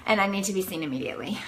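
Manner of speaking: rushed, urgent retold plea; frantic demand. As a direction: hurry it out, insisting on help. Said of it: "this is how I was".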